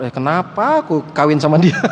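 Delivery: a mock complaint through a laugh; laughing mock regret. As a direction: laugh while voicing the regretful husband. Husband regretting marriage, joking.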